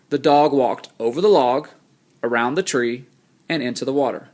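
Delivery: a pause after "log" and after "tree"; pauses between phrases. Shown as a demonstration. Teacher shows students the pauses in a list of phrases. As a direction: read each phrase, then rest at each comma. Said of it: "you can hear the pause in my speech whenever I say it".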